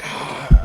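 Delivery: voiceless exasperated sigh; whispered groan at a missed shot; exasperated breath. Retold or imitated. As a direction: breathe out a frustrated "ah". Retold missing the duck repeatedly.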